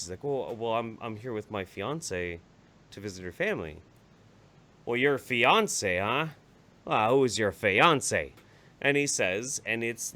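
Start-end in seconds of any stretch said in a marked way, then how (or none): 0.2-3.8 timid answer. Retold or imitated. Nervous man answering uncle. 4.8-8.3 slow suspicious uncle. Retold or imitated.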